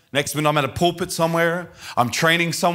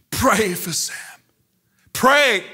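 imitated screaming mother; 6 semitones higher, slower than usual. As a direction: cry out an urgent demand as a mother. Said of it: "she's screaming".

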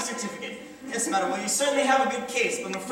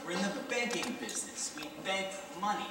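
patronizing; 5 semitones lower, 5 dB quieter than usual. Acted. Clerk explains patronizingly.

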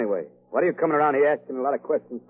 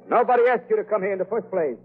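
higher and louder, snapping back; angry retort; 8 semitones higher, 4 dB louder than usual. Acted. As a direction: throw the nosy customer out. Shop owner quarrels with stranger.

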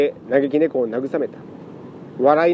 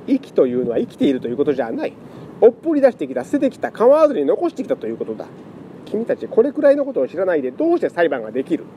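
lecturing scholar; 4 semitones higher, faster than usual. Acted.

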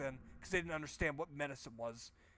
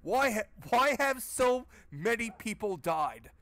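high, slow, dumbfounded mock question; mocking the game hero; 5 semitones higher, 8 dB louder, slower than usual. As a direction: ask it like a clueless hero, drawn out. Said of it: "He says, in a fucking graveyard".

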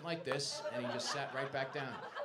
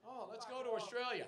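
high, mock-keen tourist; sarcastically eager holidaymaker; 7 semitones higher than usual. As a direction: put on a higher voice of naive enthusiasm. Acts out a would-be tourist.

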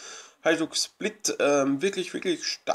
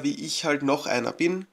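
light emphasis on "noch"; "noch" picked out with a slight stress. Real, not acted. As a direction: lean gently on the word "noch". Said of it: "Betonung auf noch".

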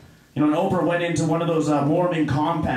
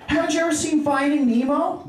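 mock Oprah amazement; 9 semitones higher than usual. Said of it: "She's like".

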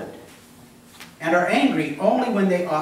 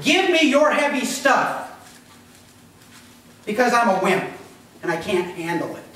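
mock wimp; 2 semitones higher than usual. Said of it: "he's saying".

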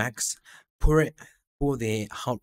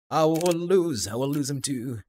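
high, strained voice; distressed; 6 semitones higher, 5 dB louder than usual. Acted. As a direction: voice on the edge of tears. Nina's desperate line.

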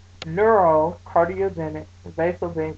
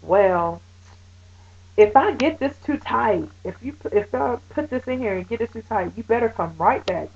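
higher, snippy mock of the nurse; snotty attitude; 4 semitones higher than usual. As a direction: mimic her condescending tone. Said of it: "with an attitude".

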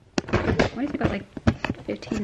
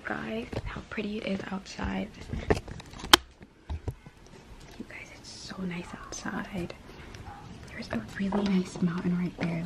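whispering. Real, not acted. Whispering so others sleep.

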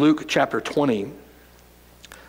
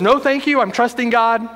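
lightly voiced stubborn man; 6 semitones higher than usual.

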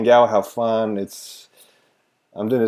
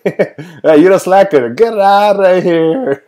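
mock boss firing; 7 semitones higher, 5 dB louder, slower than usual. Acts out firing a slacker.

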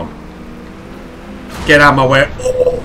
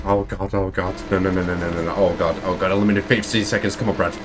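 terrified gibbering; 4 semitones lower, 5 dB quieter than usual. Real, not acted. Whispered dread at the countdown.

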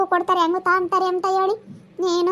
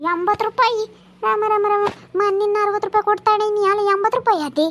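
mildly outraged echo of the price; scandalised disbelief; 2 semitones higher than usual. Acted. Customer hearing the tomato price, scandalised disbelief. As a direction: exclaim as if appalled, then argue.

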